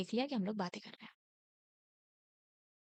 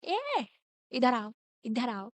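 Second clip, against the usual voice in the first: mock yell; 4 dB louder, much slower than usual. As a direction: yell them back across the ground. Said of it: "वो चिल्ला के बुलाती है".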